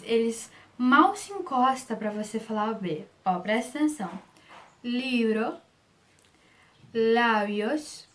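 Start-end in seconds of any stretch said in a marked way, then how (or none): 4.8-8.1 "Libro, lábios" with lips barely touching on the B; soft B. Shown as a demonstration. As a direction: let the B in "Libro, lábios" slide toward a light v. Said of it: "ele é bem leve".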